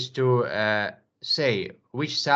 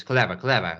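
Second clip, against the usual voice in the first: "clever" said twice as CLEV-er, ending weak; stress on first syllable; 3 semitones lower than usual. Shown as a demonstration. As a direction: model "clever" with a firm first syllable and reduced "-er". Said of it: "The first syllable is stressed".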